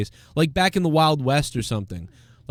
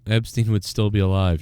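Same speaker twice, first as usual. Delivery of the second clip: lower, puzzled repeat of the line; incredulous repeat; 5 semitones lower than usual. Real, not acted. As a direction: say it again, baffled by it. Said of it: "That is so weird".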